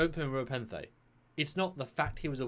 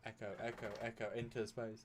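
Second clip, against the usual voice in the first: very soft, fading mock echo; imitated echo; 2 semitones lower, 13 dB quieter than usual. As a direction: play the distant echo of a yell, hushed. Imitates echo after the Khan yell.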